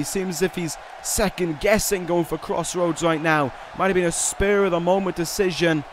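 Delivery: brisk ringside play-by-play; wrestling commentator. Acted. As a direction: call the match like TV commentary.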